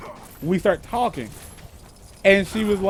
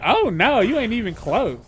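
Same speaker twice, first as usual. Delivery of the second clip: higher retold scoff, loud at first; playful, pitched-up imitation of a correction; mock dismissal; 4 semitones higher, 3 dB louder than usual. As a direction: imitate her brushing off a bad guess. Voices woman dismissing his guess.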